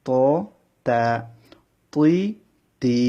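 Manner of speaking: "প" and "তুই" heavy, "তা" and "তি" light; letter drill. Shown as a demonstration. Teacher drilling heavy and light letters for students. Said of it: "এই অক্ষরটা ভালোভাবে লক্ষ্য করুন".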